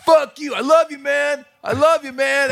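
high, loud mock drunken yelling; heckler meltdown. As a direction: swing between cursing and loving, all at full volume. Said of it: "he had a complete meltdown".

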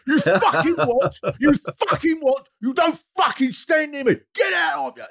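high shouted thug threat; aggressive shout. Retold or imitated. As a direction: bark it like a pub thug. Pub thug threatening, imitated.

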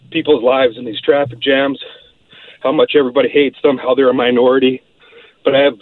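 winded and short of breath; talking while catching breath. Real, not acted. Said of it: "I'm just out of breath here".

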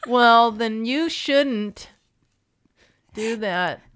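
high, laughing imitation of a scolding; teasing mock scolding. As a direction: draw out the mock reprimand through laughter. Teasing replay of co-host's scolding.

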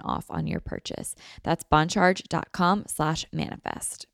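upbeat sponsor read. Acted. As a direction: read the ad cheerfully. Host reads sponsor ad.

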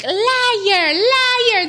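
high, loud mock accusing yell; hammed-up irate mother wailing; aggressive, imitated. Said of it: "very aggressive".

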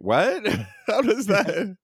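shocked and laughing; sudden disbelief, pitch jumping up; surprised. Retold or imitated. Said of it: "I'm like".

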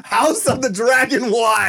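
slow, high, drawn-out ad voice; hammed-up wine ad; mock product announcement. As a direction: present it like a grand commercial.

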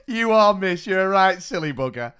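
put-on loud cheeky kid laughing through it; kid's cheeky loud verdict. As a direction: blurt it out like a cheeky pupil. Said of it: "this one kid went".

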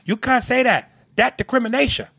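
put-on high squeaky Asian accent. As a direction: imitate her in an Asian accent. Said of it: "the Asian woman, girl goes".

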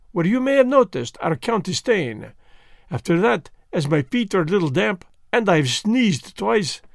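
precise, amused detective explaining his method; a hint of a French-tinged gentleman; Poirot voice. Poirot speaks in dialogue.

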